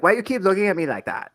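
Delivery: put-on Cuban accent, questioning. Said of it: "She was Cuban".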